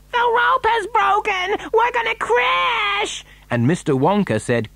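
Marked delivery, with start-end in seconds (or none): 0.1-3.2 very high, drawn-out wail; panicked cry. A narrator's reading. Mother in the plunging lift, crying out in panic. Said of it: "Missus T V cried out".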